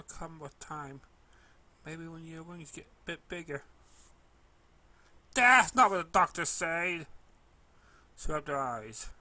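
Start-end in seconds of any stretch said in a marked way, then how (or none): 5.3-7.1 high, loud upset reply; tearful filly. A narrator's reading. Hurt filly correcting the pony about her wings, high loud tearful.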